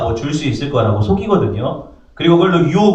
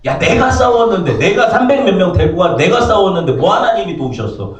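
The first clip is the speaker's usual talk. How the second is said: a hammed-up indignant snap, higher at first; mock outburst; 3 semitones higher than usual. Imagined Abraham snapping back at Melchizedek, mock angry. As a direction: pretend Abraham bristling, then cooling off. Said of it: "버럭 승질내요".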